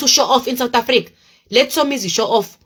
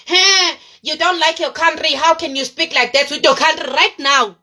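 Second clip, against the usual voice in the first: imagined critics; 4 semitones higher than usual. Acted. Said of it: "people who's gonna start saying".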